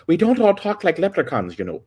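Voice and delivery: high, loud, slow Irish protest; mock Irish accent. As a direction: protest in a put-on Irish lilt. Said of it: "it's like Irish people are gonna".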